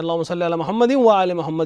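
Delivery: "محمد وآل" linked as "Muhammadiw-wa aale"; joined waw. Shown as a demonstration. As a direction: glide from "محمد" into "وآل" with an i sound. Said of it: "ملا کے حتی واو کو بھی".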